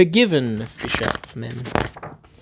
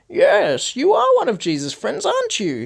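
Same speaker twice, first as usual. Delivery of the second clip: high, louder, pressing accusation; insistent accuser; 13 semitones higher, 3 dB louder than usual. Acted. Man steps forward to accuse Peter, high and insistent. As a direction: corner him with it.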